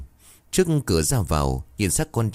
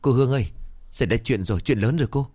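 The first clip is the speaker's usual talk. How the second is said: alarmed call; 5 semitones higher, faster than usual. Acted. Worker rushing in with bad news.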